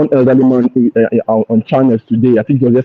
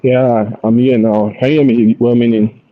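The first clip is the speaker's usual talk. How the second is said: muffled, as if through a hand; words dulled and muffled; 2 semitones lower than usual. Real, not acted. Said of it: "Your, your voice is kind of muffled".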